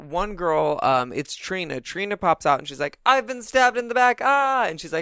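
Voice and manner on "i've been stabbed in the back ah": high, loud hammed-up victim; mock stabbing cry. Trina pretends she was stabbed in the back, hammed-up cry.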